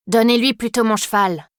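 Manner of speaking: a hint of an English girl speaking French; mild English accent on French words. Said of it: "Cet accent n'appartient qu'à une seule pensionnaire".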